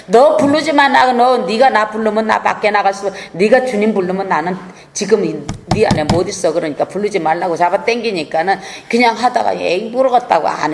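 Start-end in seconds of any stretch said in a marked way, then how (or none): 0.1-6.5 a hint of a clinging demon begging not to be cast out; demon pleading. Demon inside the believer begs them not to call the Lord, pleading. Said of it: "귀신이 끄잡아 당겨서".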